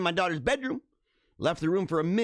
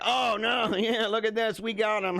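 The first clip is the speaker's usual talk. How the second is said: higher-pitched mocking imitation with a laugh; mock gloating crowd; 5 semitones higher than usual. Streamer imitating people who think they caught him, mock gloating. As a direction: imitate them crowing, laughing through it. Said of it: "And they're like".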